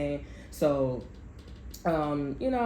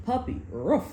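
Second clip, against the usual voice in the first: dog bark; 4 semitones higher than usual. Retold or imitated. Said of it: "that's extra effects".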